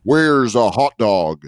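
Canadian's idea of a dim American; mock American accent. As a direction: lightly caricature an American accent. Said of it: "they were all like".

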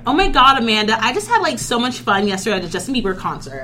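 lightly voiced valley girl; a hint of a bubbly teen girl; white girl voice. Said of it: "like two white girls".

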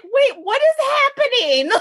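high, laughing disbelief; shocked confusion. Retold or imitated. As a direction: squeal it in shock. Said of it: "I was like".

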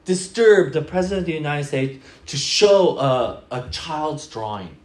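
loud, slow scolding; hammed-up outrage; mock indignation. Imagined listener scolding the child, mock stern. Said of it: "you go".

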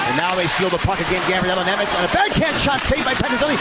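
fast hockey call building to a goal; rapid hockey play-by-play. Real, not acted. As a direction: call the rush, rising to the goal.

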